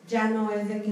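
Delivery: usual speaking voice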